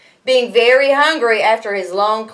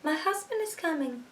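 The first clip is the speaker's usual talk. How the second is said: hushed, much softer, high and far-off; whispered; 6 semitones higher, 14 dB quieter than usual. A narrator's reading. Giant's wife warning Jack the husband comes, hushed whisper. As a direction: breathe it like a frightened secret. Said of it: "she whispered".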